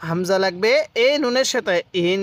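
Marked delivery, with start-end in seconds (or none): 2.1-2.2 ইন held as a long nasal hum; prolonged nasal ending on ইন; ghunnah demo. Shown as a demonstration. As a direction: sustain the n of ইন through the nose. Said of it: "নাকের বাসি দ্বারা গুন্নাহ করবেন".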